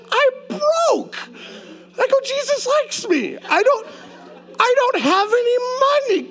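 very high, whiny mock plea; mock whine. Pastor imitating himself to his friend, very high whine. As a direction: squeak it like a broke kid.

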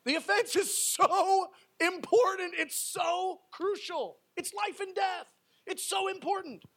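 emphatic. Real, not acted. Preacher stresses urgency, laughing.

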